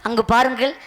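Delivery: stage king declaiming formally; measured theatrical oratory; mock-royal proclamation. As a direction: proclaim it to the whole audience, phrase by phrase. King's mock oration pointing out musicians.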